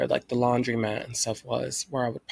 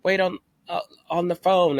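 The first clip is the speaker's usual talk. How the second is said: lightly voiced phone recording, higher; automated phone message; 6 semitones higher, 4 dB louder than usual. Imitating the police phone line's recorded message. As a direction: mimic the police hotline recording. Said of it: "the voice thing was saying".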